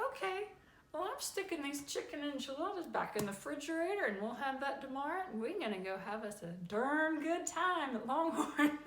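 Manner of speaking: high, bright and quick, happy to go along; upbeat mock-cheerful yes; cheerful agreement. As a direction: chirp it like a happy wife.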